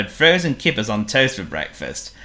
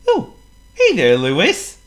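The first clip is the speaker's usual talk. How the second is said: high, loud squeaky penguin; a gloomy little penguin sighs; 9 semitones higher, 6 dB louder than usual. A narrator's reading. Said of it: "greeted Waldo".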